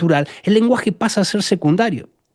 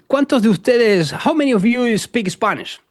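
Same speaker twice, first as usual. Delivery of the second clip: addressing an audience; 6 semitones higher than usual. Retold or imitated. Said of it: "le digo al americano".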